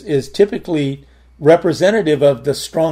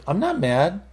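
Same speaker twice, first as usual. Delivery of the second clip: mild mock protest, pitched up; mad-sounding denial; 4 semitones higher, 4 dB quieter than usual. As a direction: imitate your own testy denial, lightly. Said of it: "my voice can sound like it's mad".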